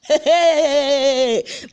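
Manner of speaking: loud high burst of laughter. Real, not acted. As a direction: laugh out at the drama. Narrator laughs at twist.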